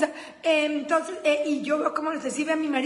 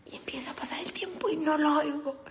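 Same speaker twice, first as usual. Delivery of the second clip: hushed whisper in the dark; whispering suspense; 5 dB quieter than usual. Retold or imitated. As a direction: whisper so as not to wake him.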